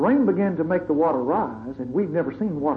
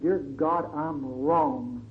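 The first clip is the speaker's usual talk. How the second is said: humble confession; 3 semitones lower, 5 dB quieter, much slower than usual. Retold or imitated. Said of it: "fell on their knees and said".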